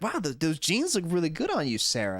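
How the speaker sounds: cheerful, lively compliment; enthusiastic. Shown as a demonstration. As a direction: say it with real enthusiasm. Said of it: "more enthusiasm".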